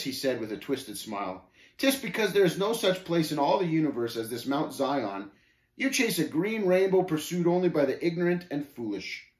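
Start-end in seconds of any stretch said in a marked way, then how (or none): 1.8-9.3 higher, dismissive scoffer; lightly voiced scornful Shame, scoffing. Shame dismissing Mount Zion to the pilgrim, scoffing. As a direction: lightly play a sneering unbeliever.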